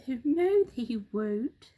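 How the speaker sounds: bright reassuring bird; calm the monkey's fears; a hint of a cheery bird; roly-poly bird.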